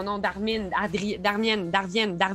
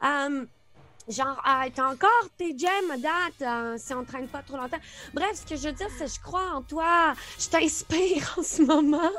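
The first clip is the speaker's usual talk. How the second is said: marionette voice; 4 semitones higher than usual. Acted. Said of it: "j'ai une voix de marionnette".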